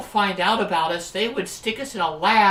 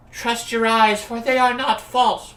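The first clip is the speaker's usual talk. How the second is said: Shakespearean voice; 3 semitones higher, 3 dB louder than usual. Acted. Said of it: "Old English Imogen".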